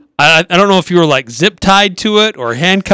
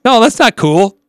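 mock protest; 7 semitones higher than usual. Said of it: "I'm like".

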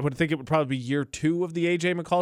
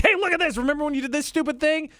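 mocking app voice; 10 semitones higher than usual. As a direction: tease like a smug phone notification. Phone memory app voiced.

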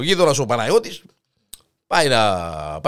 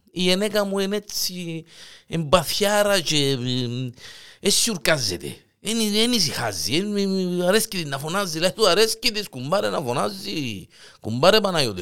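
high, apologetic excuse voice; sheepish high neighbour; 5 semitones higher than usual. Acted. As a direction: shrug off the noisy wife, sheepish. Kokkos excuses his loud wife. (ντροπαλός, ψηλόφωνος γείτονας)

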